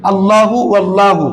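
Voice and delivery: slow আল্লাহু, then ওয়াল্লাহু with the hamza dropped; joined reading demo. Shown as a demonstration. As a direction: model আল্লাহু and ওয়াল্লাহু slowly for the students. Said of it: "হামজাটা পড়তেছি না আমরা". (ধীরে আল্লাহু, তারপর হামজা ছাড়া ওয়াল্লাহু)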